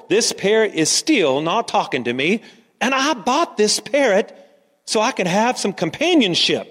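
mildly upset customer, pitch swinging; distressed. Acted. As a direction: protest with a touch of distress. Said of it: "she was so distressed".

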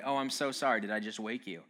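mock-apologetic, lightly condescending. Morning person to someone just woken, mock condescension. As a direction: imitate a smug morning person's false apology. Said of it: "The condescension with which they say".

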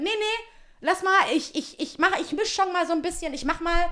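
high-pitched mock of a stalling sister; imitated insistent sister. Sister insists on mixing the paint herself, imitated insistence.

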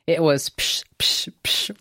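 imitated booms. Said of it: "one young boy said".

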